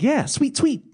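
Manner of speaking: mock bro voice. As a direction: brush it off like a smug teenager. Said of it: "It's like".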